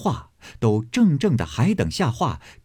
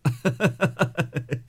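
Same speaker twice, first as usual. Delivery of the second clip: grandmother's laugh; 5 semitones higher, 5 dB quieter than usual. Acted. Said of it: "贾母笑道".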